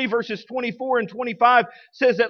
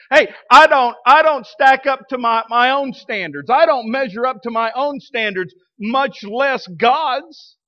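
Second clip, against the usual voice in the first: emphatic confession; 3 semitones higher, 4 dB louder than usual. Real, not acted. Confessing own failings.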